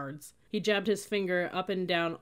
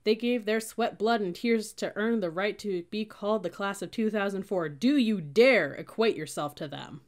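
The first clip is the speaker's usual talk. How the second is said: loud, higher, slowing to a heavy challenge; indignant tirade; 4 semitones higher, 6 dB louder than usual. A narrator's reading. Sergeant scolds cadet for claiming their class, indignant.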